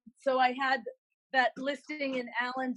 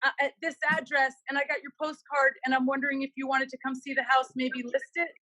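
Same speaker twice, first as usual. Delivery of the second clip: imitating the caller; 4 semitones higher than usual. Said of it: "And he said".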